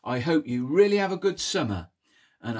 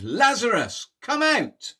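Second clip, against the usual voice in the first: loud, high commanding call; shout; 9 semitones higher, 7 dB louder than usual. Acted. Jesus calling Lazarus out of the tomb, loud high shout. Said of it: "He shouted".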